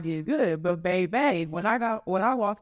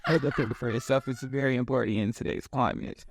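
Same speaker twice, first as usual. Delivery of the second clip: lower, polished commercial read; 5 semitones lower than usual. Shown as a demonstration. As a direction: say it like a public service ad. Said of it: "That sounds like an ad".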